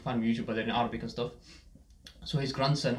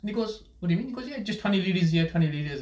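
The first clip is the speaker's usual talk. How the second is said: laughing retell; 6 semitones higher, 3 dB louder than usual. Real, not acted. Laughing while retelling friend.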